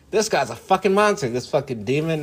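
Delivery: a lightly voiced shocked viewer; mock outraged critic. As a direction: play the shocked accuser. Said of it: "some of you motherfuckers would be like".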